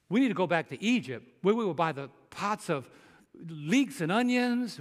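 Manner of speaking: hammed-up longing grumble; playful griping at the leader; mock angry complaint. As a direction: grumble for the food left behind. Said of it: "Didn't they get mad at Moses?".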